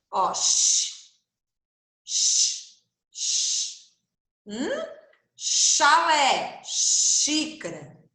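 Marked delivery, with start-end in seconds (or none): 0.1-3.9 hissed sh sounds; sh sound demo. Shown as a demonstration. Teacher hisses sh to show the xícara sound. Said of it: "mesmo som que xícara".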